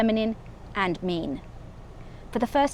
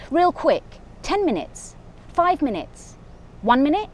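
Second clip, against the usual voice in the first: pleading lover; 6 semitones higher than usual. Acted. Begging for one last meeting.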